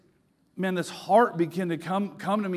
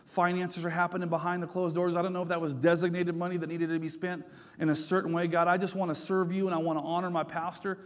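tearful prayer; 4 dB quieter than usual. Retold or imitated. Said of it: "began to shed tears and say".

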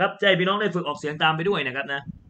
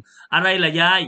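slow, louder, drawn-out teasing grandchild; mock grandchild; 4 semitones higher, 6 dB louder, slower than usual. Grandchild answering grandma who keeps calling ตา, slow and teasing. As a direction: tease grandma slowly like a fed-up grandchild. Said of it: "เดี๋ยวหลานมาได้ยิน".

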